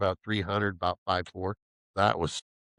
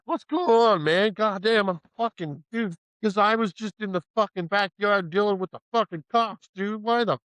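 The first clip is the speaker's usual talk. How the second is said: frantic roommate; 10 semitones higher than usual. Retold or imitated. Roommate panicking about cops in backyard, frantic. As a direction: play the freaked-out buddy.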